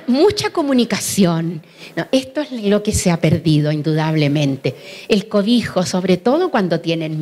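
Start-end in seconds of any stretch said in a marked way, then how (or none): 0.1-1.6 chuckling through the words; a slow, laughing aside. Real, not acted. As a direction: laugh it off, slowly. Laughs at own joke.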